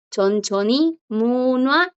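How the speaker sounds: munua said smoothly, no H after the N; correct silent J. Shown as a demonstration. Teacher models the most correct pronunciation, munua with silent J. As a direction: demonstrate chonchoni munua without sounding the J. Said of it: "es la pronunciación más correcta".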